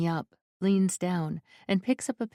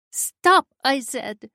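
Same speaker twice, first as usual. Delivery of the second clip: forceful shout; 7 semitones higher, 8 dB louder, slower than usual. A narrator's reading. Valeska orders Mikhail to stop, forceful high shout. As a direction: Stop yelled high and loud. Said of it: "Valeska says more forcefully".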